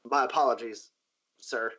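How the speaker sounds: mildly sheepish, trailing off on "sir"; small, halting apology; sheepish guard. Acted. Guard apologizing to his boss, mildly sheepish. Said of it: "like, sheepishly and goes".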